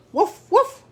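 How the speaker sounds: high, loud little woofs; dog bark. A narrator's reading. Titus the farm dog barking at the bus, high woofs. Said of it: "barked Titus".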